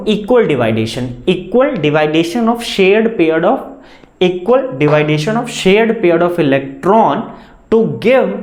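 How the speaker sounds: very slow, drawn-out dictation; slow, measured definition read-out; dictating. Real, not acted. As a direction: dictate it word by word for note-takers.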